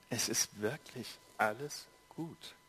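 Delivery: soft, slow, hushed reassurance; gentle reassurance. A narrator's reading. King calms the frightened boy, soft and slow. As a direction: breathe it gently and slowly. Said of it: "der König unterbrach ihn".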